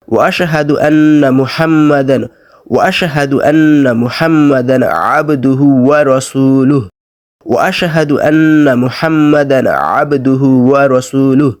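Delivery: slow, melodic Arabic recitation; careful recitation. Shown as a demonstration. Teacher reciting the second line, slow recitation. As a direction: hold the long vowels evenly.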